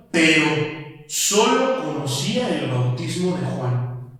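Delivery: slow, weighty reading of the verse; scripture reading. Acted. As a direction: read it slowly, like Scripture. Reads scripture slowly. (lectura pausada y solemne de las Escrituras)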